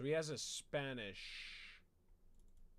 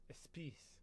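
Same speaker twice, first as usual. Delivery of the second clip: whispered correction "It's peace."; 9 dB quieter than usual. Acted. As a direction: hiss the fix under your breath. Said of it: "I really hate peas".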